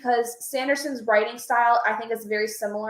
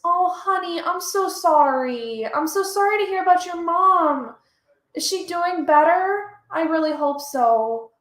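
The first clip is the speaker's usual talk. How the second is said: sincere, tender sympathy, raised pitch; 5 semitones higher than usual. Real, not acted. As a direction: comfort a friend with bad news. Streamer consoles viewer about mom.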